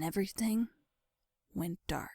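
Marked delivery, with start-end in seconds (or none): 1.5-2.1 breathy whisper as the lights go out; whispered fade. A narrator's reading. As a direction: let the words die into a whisper. Narrator fading out as she faints.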